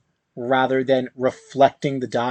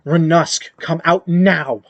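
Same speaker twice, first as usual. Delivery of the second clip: calling out; 4 semitones higher, 4 dB louder than usual. Acted. Mother calling out for her son.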